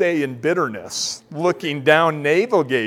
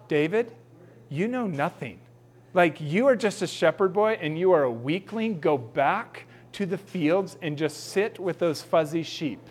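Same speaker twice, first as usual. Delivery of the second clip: softer, dismissive put-down; scornful big brothers; 5 dB quieter than usual. Acted. Brothers sending David back to the sheep, soft and scornful. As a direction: brush off the little brother.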